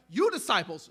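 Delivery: YOU stressed ahead of disciples; single them out with a punched YOU; firm stress on YOU; emphatic YOU. Retold or imitated. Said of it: "it's emphatic".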